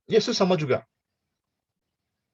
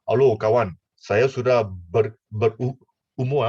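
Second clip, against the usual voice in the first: put-on lower, slow elderly voice; old Nicodemus; 6 semitones lower than usual. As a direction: creak it out like an old man.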